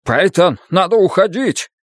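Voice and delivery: high, pressing call to flee; alarmed, pitched well up; urgent plea. A narrator's reading. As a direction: urge her to get out now. Frightened man urges escape under fire.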